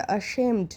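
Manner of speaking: "অ্যাশেমড" said carefully as a model; pronunciation demo. Shown as a demonstration. Teacher showing pupils how to pronounce "অ্যাশেমড", careful model. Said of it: "উচ্চারণ কীরকম হবে".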